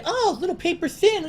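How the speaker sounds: high, far mock voice of a boastful gadget owner; mock prissy show-off voice. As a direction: sneer at the iPad crowd in a prissy voice. Mocking modern laptops.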